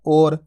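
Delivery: और said as "or", long o without glide; wrong pronunciation demo. Shown as a demonstration. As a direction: close और to a round o. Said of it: "ओ की मात्रा का उच्चारण हो जाएगा".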